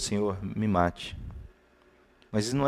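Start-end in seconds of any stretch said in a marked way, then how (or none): 0.0-1.2 weary plea. Retold or imitated. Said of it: "ele pediu a Deus".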